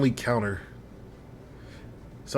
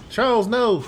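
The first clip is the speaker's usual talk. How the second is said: dismayed cry; 10 semitones higher than usual. Real, not acted. Unit dies in game.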